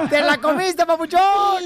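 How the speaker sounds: high, laughing taunt; gleeful teasing. Real, not acted. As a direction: crow over a successful prank. Host gloats after prank reveal.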